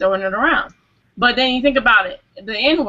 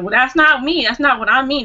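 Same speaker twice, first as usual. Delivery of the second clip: higher-pitched mock protest; retold protest; 4 semitones higher than usual. Co-host defends what was meant, in a higher-pitched protest. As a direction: imitate someone pushing back, pitched up. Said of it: "came back and was like".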